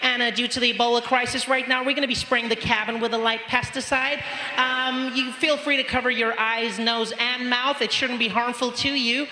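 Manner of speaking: chirpy flight attendant reading the safety notice; air hostess announcement. Retold or imitated. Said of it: "she comes on her little microphone".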